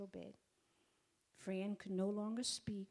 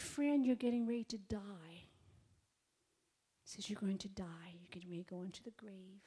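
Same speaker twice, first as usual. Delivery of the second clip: hushed gentle whisper. Retold or imitated. Telling dying friend gently.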